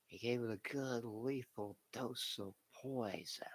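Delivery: whispery, raspy villain boss voice; Vince McMahon impression. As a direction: hiss it like a scheming wrestling boss. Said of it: "let me see if I can do a good Vince impression".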